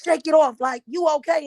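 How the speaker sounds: brusque mom. Retold or imitated. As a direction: brush the child off, shake it off. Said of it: "They be like".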